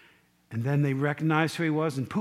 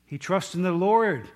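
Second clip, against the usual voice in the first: louder preacher's version of a jeering crowd; mock yelling; 3 semitones higher, 4 dB louder than usual. Crowd yelling at Jesus on the cross, raised mock yell. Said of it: "what the people are yelling".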